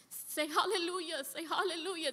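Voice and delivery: recalling being prayed over, tearful and moved. Real, not acted. Telling emotional revival moment, crying.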